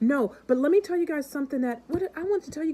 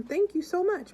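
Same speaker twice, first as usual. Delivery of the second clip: higher thankful voice; grateful young lady; 7 semitones higher than usual. Retold or imitated. Daughter thanking the man for flowers, higher. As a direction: lift it up, gratefully. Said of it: "she's like".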